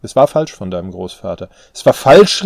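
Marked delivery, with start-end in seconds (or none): 1.7-2.4 loud, high incredulous echo; outraged cry. A narrator's reading. Daughter echoing father's words back, outraged cry. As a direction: throw it back at him, shouting. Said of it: "rief sie".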